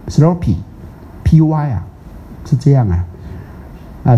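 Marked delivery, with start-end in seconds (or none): 0.1-1.8 sloppy said very slowly, the P almost like a B; American pronunciation. Shown as a demonstration. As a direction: stretch out sloppy, softening the P toward B. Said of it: "如果美国那边念".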